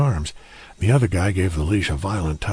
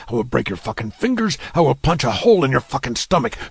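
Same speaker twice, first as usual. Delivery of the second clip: building rage; 3 semitones higher than usual. Acted. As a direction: let the fury snowball into a high plea. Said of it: "trembling with rage and worry".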